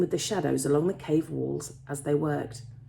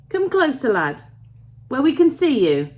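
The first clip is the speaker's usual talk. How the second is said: put-on raised, louder old miner's call; 8 semitones higher, 8 dB louder than usual. A narrator's reading. Old miner calling a stranger closer, raised voice. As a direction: call someone over out of the dark.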